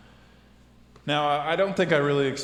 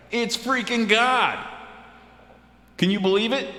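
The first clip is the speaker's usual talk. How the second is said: excited; 11 semitones higher than usual. Acted. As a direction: gush about it, wide-eyed. Excited aside about God.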